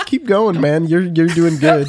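laughing pep-talk coach; mock motivational coach. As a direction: encourage him while laughing. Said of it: "like a life coach".

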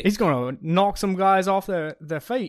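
loud, excited hype call; hype shout. Acted. Cohost loudly hyping the punter's strong leg. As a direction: boom it out like a stadium hype man.

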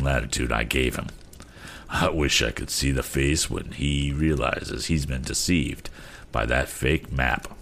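lightly voiced captain, low and unworried; reassuring captain.

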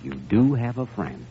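put-on doctor consoling the sobbing girl; tender comfort. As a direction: hush her gently, like calming a child.

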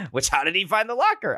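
quick question that breaks into laughter; laughing question. Real, not acted. Puzzling over the plot, laughing through it. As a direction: laugh as you ask it.

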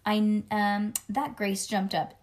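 put-on lively read-aloud as a little kid narrator; chatty kindergartner storytelling; children's story narration. A narrator's reading. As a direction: read it to a child with bouncy emphasis.

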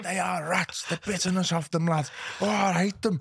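a cabbie working himself up against Everton; taxi driver ranting. Retold or imitated. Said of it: "And he was like".

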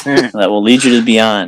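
slow, spacey stoner drawl; lazy hippie stoner guide. Pretend. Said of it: "My stoner voice".

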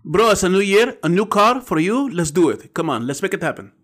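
used car salesman. Pretend. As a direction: sell the car hard, buddy-buddy. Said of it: "sounds like a, uh, used car salesman".

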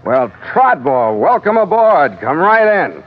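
slow, high, wry greeting; wry welcome. Acted. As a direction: savour the welcome slowly. Captain greets rescuer with irony.

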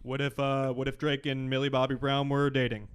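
low broadcast announcer voice. Pretend. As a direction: read it like a movie trailer. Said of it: "my announcer voice a little deeper".

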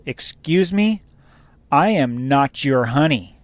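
retold huffy indignation, slow and emphatic; mock indignant outburst. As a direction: imitate a customer flipping out, spacing out the words. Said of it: "this lady just flips out".

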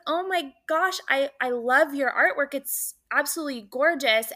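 high, excited praise; gushing fan. Retold or imitated. Fan telling the painter she loves his work, high and excited. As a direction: pour out the compliments breathlessly.

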